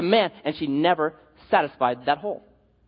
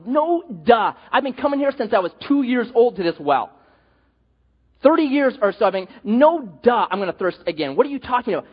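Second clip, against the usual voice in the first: mocking, sarcastic, a bit louder; scoffing duh; 4 semitones higher, 3 dB louder than usual. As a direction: she rolls her eyes at the obvious. Woman scoffing at Jesus.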